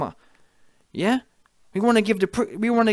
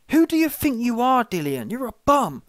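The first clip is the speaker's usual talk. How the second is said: higher, louder furious challenge; indignant outburst; 6 semitones higher, 3 dB louder than usual. Real, not acted. Vlogger berating Dillian Whyte, loud indignant rant. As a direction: call him out, outraged.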